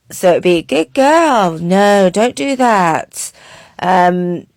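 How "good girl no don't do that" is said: monotone. Shown as a demonstration. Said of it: "or even more monotone than that".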